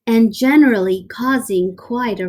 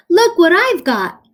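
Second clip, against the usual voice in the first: higher, louder call; shout; 8 semitones higher, 5 dB louder than usual. Acted. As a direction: taunt the cat from afar. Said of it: "he shouted".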